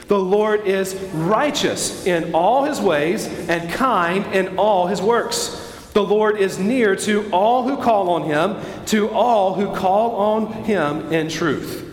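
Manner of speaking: slow, deliberate scripture reading; drawn-out phrases that a crowd can follow; reading aloud together. Real, not acted. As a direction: lead the congregation word by word. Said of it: "read out loud together".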